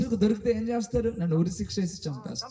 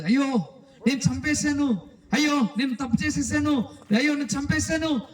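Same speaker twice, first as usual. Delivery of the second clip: crying; 6 semitones higher than usual. Acted. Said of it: "అని ఏడుస్తూ".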